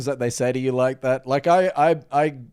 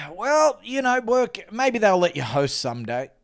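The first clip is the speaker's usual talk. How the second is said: high start sinking to usual pitch; unimpressed mum; 7 semitones higher than usual. Retold or imitated. Mum on phone about son's new job, unimpressed. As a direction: offer faint, doubtful encouragement as mum. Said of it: "I hear this on the other end".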